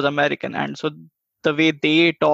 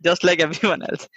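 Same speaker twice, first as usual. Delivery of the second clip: laughing retort. Pretend. Mock retort to absent Americans.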